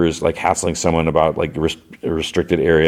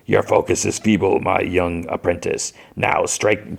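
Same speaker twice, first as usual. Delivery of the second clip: Sidious. Retold or imitated. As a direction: taunt a pupil with measured menace. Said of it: "Sidious says".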